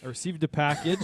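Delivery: said again through a laugh, teasing. Shown as a demonstration. Telling friends about a mystery package, laughing. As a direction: grin and repeat it playfully. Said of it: "repeated announcement".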